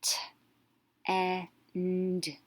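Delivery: T, e, n, d as letter sounds, short e; phonics-style T, short e, n, d; sounded out. Shown as a demonstration. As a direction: sound out T, e, n, d with gaps. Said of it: "going to make a short vowel sound".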